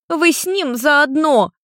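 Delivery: high, slow hurt accusation; girl sulkily accusing from behind the sofa; offended. A narrator's reading. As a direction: sulk it out like a wronged kid. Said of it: "обиженный ответ из-за дивана".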